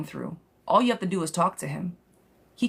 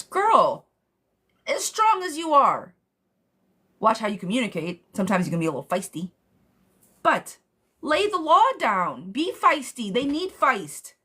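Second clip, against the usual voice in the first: fired-up pep talk; 4 semitones higher than usual. Real, not acted. Psychic urging a widowed mother to lay the law down, fired-up and high. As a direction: pump her up to lay down the law.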